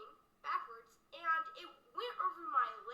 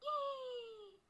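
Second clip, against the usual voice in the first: high repeated yays; repeated cheers; 8 semitones higher, 3 dB quieter, much slower than usual. Acted. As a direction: cheer again and again. Old video kid cheering.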